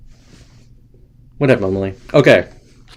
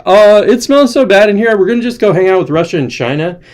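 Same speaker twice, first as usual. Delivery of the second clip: higher-pitched mock complaint; mock disgusted crowd; 7 semitones higher than usual. Everybody leaving the smelly room, mock disgusted. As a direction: lightly whine as the fed-up crowd. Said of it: "everybody's like".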